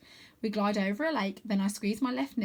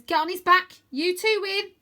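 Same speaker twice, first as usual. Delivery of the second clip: higher, louder eager urging; girl urges boy onto the dragon; 10 semitones higher, 8 dB louder than usual. Acted. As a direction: push him to go now. Rose urging.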